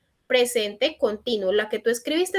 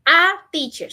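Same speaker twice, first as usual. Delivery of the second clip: slow corrected question; 5 semitones higher, slower than usual. Shown as a demonstration. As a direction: model the corrected question slowly. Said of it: "Sin la an". (pregunta corregida, lenta y marcada)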